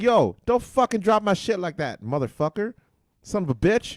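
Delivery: high, loud furious yelling; angry shout. Retold or imitated. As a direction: scream at the driver. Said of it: "I'm like".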